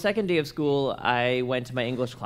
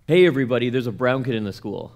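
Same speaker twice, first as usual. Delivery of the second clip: retold scream; 6 dB louder, faster than usual. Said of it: "he screamed down the hallway".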